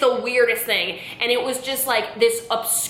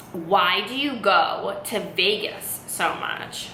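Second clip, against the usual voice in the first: slow, deliberate cryptic questioning; spaced-out probing question, imitating mom; riddling mom; slower than usual. Mom probing her daughter about Vegas, riddling. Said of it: "talking almost in, like, a riddle".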